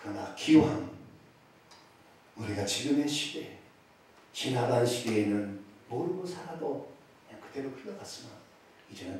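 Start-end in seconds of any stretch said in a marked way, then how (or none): none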